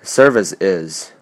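"Service is" run together as one word; linked. Shown as a demonstration. Teacher showing learners linking, linked "Service is". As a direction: link "Service is" so it sounds like "services". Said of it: "被连起来".

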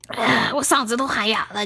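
hoarse from shouting. Real, not acted. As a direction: voice worn hoarse from yelling.

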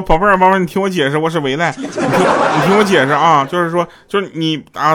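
frantic pleading. Retold or imitated. Husband pleading with angry wife.

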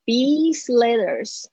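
slow "these letters" with long ee; slow, drawn-out model of "these letters"; careful "these". Shown as a demonstration. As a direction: stretch "these" before "letters". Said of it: "注意一下这些的发音".

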